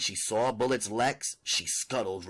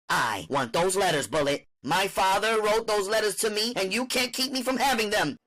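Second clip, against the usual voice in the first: determined demand; 10 semitones higher, 4 dB louder than usual. Acted. Winter demands the letters.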